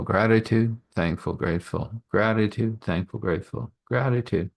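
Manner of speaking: earnest prayer voice, steady and devout; spoken prayer. Acted. Leading the listeners in prayer, devout and earnest. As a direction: pray it out for the group.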